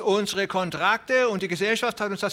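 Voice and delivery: put-on an old man wailing about the promise; klagender alter Mann. A narrator's reading. Old farmer voiced. (viel höher, klagend)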